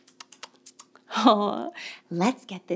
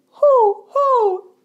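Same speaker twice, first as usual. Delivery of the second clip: high loud owl hooting; 8 semitones higher, 8 dB louder than usual. Pretend. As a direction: hoot like an owl. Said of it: "an owl says".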